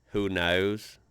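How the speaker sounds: unconvincing Australian "knows"; attempted Australian accent. Shown as a demonstration. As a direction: have a halting go at an Australian vowel in "knows". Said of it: "See, that doesn't sound right".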